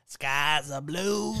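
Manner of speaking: put-on slow, strained Mexican-accent voice; throat-straining voice. Showing the voice that hurt his throat, strained Mexican accent. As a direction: push it from the back of the throat. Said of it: "when I was doing that".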